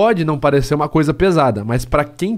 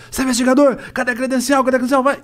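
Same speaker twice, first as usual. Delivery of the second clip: demanding guard; 10 semitones higher, faster than usual. Retold or imitated. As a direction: snap at him to show the badge. (segurança exigindo a credencial, bem agudo)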